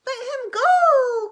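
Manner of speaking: high, loud, slow desperate plea; crying out. Acted. Mother frog crying out at the hawk, loud and high. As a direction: shriek at the hawk to let go. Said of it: "cried mother".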